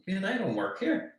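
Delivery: slow, high-pitched protest; retold puzzled correction. Retold reply to mistaken customer.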